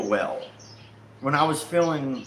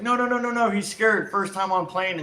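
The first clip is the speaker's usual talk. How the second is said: high, rapid-fire protest; imitated hurried pleading; retold urgent intervention; 4 semitones higher than usual. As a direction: jump in to defuse it, acting out a friend. Friend jumping in to defend him.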